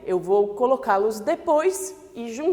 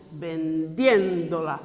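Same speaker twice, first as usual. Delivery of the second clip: vendiéndola slowed with the é of vendiéndola marked; stress on the é; 6 semitones lower, much slower than usual. Shown as a demonstration. Teacher asking students to hear the stressed syllable. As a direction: slowly lean on the é in vendiéndola. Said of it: "Vê onde é que é a força".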